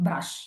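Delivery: "ബ്രഷ്" with B, R and SH all heard; every letter sounded. Shown as a demonstration. Teacher giving the answer, every letter sounded in "ബ്രഷ്". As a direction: say "ബ്രഷ്" alone, no sound dropped. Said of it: "എല്ലാ ലെറ്റേഴ്സും pronounce ചെയ്യുന്ന".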